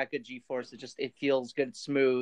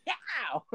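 mock yelp; 6 semitones higher, 4 dB quieter than usual. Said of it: "you go like".

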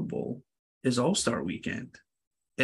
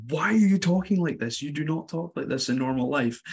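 high, scolding his own recording; half-joking scold at himself; mock shout at the screen; 3 semitones higher than usual. Scolding his own voice on the screen, mock exasperated. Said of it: "I remember shouting at my, at my screen".

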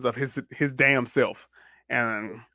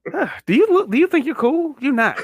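higher, louder teasing voice; mocking put-down; 11 semitones higher, 4 dB louder than usual. Mocking the Flash's ninja run, high and teasing. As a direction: sneer it as a playground taunt.

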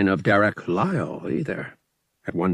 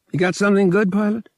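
a higher, put-on gambler's voice, cordial; smooth gambler; 12 semitones higher, 6 dB louder, much faster than usual. Lyle inviting Han to the sabacc table, cordial. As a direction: wave him over with easy charm.

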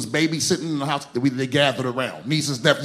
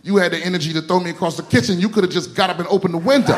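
fast defiant comeback; 2 semitones higher, faster than usual. Retold or imitated. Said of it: "And I was like".

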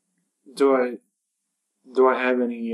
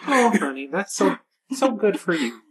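put-on Minnesota accent; 7 semitones higher than usual. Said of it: "can't do a good Minnesota accent".

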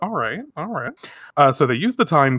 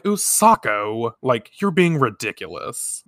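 mildly dismissive, dragging out the name; slower than usual. Retold or imitated. Boyfriend brushing off his jealous girlfriend, mildly dismissive. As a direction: act out a slow, faintly patronizing brush-off. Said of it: "that's how that comes off".

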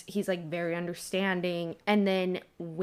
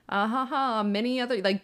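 Dumbledore; 4 semitones higher than usual. Retold or imitated. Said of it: "He's very whimsical".

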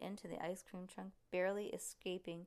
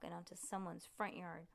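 ordinary delivery, nothing marked

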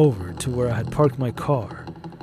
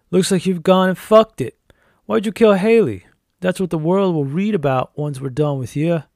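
raised, louder mocking sheriff voice; taunting sheriff; 5 semitones higher, 5 dB louder than usual. A narrator's reading. Crooked sheriff framing the narrator for a killing, taunting him loudly. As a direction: taunt him, pitched up and forceful.

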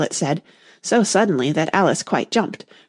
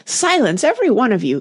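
higher, sharp call for silence; commanding cry; 6 semitones higher than usual. Acted. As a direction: cut the daisies off with a cry. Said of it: "cried the Tiger Lily".

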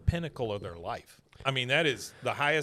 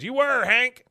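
mock jab; 12 semitones higher, 10 dB louder, slower than usual. Dale's jab.

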